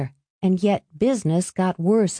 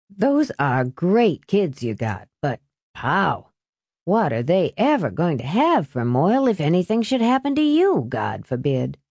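lightly voiced salesman with swooping emphasis; mildly theatrical sales pitch; persuasive salesman. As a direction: press the point with big rises and falls. Salesman pressing a man to buy.

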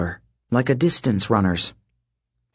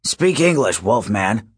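bellowing. Acted. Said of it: "Hedge bellowed".

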